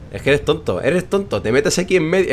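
high mock scolding of a character. Real, not acted. Gamer scolding a character for stepping in, high. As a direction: tease the character as a fool.

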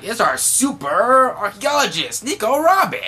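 high, loud showman voice announcing Robin; imitating Frankie. Frankie hails Robin at their reunion, high and loud. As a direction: boom it out like a proud showman.

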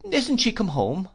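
put-on high, plaintive child's question; rueful. A narrator's reading. Boy asking after his absent mother, rueful. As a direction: pitch it well up, with rueful disappointment. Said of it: "said I ruefully".

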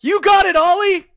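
loud, high-pitched holler; in-character shout. Acted. Player calls out to Ollie in character, high shout. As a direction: call it out at full shout.

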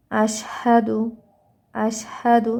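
আশহাদু with a clear sh sound, drawn out; careful recitation. Shown as a demonstration. Teacher modelling আশহাদু for students, careful recitation. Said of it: "এই যে এই জায়গাটা".

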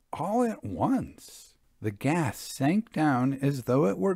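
builds dread, rising pitch, slowing down; suspenseful story narration. A narrator's reading. Reads ghost story excerpt.

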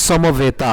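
সমবেতা opening on a clear s, not sh; dental s. Shown as a demonstration. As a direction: say সমবেতা as somo-veta with a sharp s. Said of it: "হবে".

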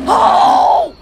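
high, loud burst of shock; startled shout. Real, not acted. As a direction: yell in sudden alarm. Startled by creature.

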